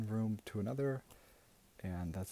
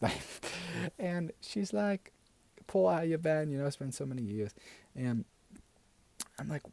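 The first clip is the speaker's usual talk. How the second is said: gushing auntie voice; 2 semitones higher than usual. Acted. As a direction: play a doting, gossipy aunt. Plays a gushing auntie character.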